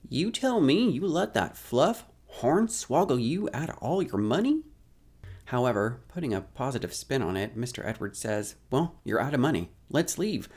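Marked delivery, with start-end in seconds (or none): 0.1-4.6 put-on high, loud, incredulous old-timer voice; outraged old man. Mr Edwards outraged at the boy. 8.7-10.5 put-on old man voice. Mr Edwards urging to leave.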